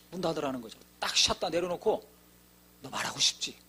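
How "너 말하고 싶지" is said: put-on low, breathless whisper to the boy; whispered question. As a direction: lean in and whisper it kindly. Speaking softly to the mute boy. (벙어리 아이에게 낮게 속삭이듯)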